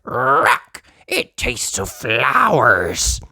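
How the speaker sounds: slow, gruff little dog voice; lightly voiced puppy complaint; Danny Dog. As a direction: grumble about the taste. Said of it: "says Danny".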